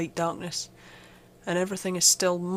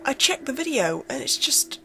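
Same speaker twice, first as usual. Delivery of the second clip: much higher and louder, frantic, building to near-shouting; panicked; 7 semitones higher, 3 dB louder than usual. Acted. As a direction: build from shaky disbelief to full panic. Realises it was there all along.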